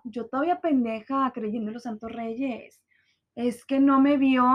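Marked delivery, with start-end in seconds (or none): 3.3-4.4 mock naive. Mocking her naive self.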